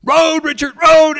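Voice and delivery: high, urgent warning shout; shrieked backseat alarm. Retold or imitated. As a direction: yell a panicked warning to the driver. Passenger warns the swerving driver.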